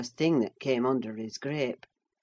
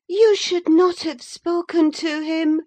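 put-on much higher, louder girl's reproach; Cathy reproaching Linton; expostulating girl; 13 semitones higher, 7 dB louder than usual. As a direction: scold him, upset. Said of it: "she expostulated".

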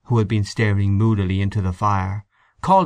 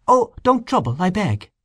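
velvety voice; 9 semitones higher than usual. A narrator's reading. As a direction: gently decline the help. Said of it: "velvety voice".

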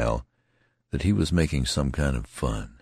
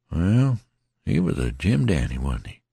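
lightly voiced rough soldier; folksy soldier murmuring praise; tattered soldier, musing; 2 semitones higher than usual. Tattered man repeats praise.

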